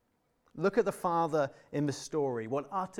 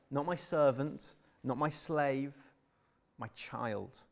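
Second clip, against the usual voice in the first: tender; slower than usual. Retold or imitated. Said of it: "a wonderfully tender word".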